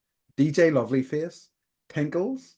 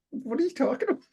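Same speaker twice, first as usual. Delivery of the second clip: laughing; faster than usual. Retold or imitated. Mom's puzzled reply, retold laughing.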